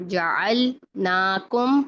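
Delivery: जअलनाकुम slowly, light "el"; spread thin lam. Shown as a demonstration. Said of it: "फैलाएं इसको".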